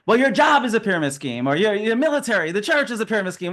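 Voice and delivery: hammed-up defensive comeback; mock defensive. People asked about pyramid schemes hitting back, defensive. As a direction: imitate someone getting defensive. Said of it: "people get very defensive".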